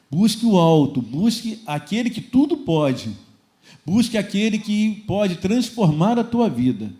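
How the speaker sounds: slow, emphatic exhortation; drawn-out, rousing pulpit call; fervent preaching. Real, not acted. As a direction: press each phrase on the congregation with force.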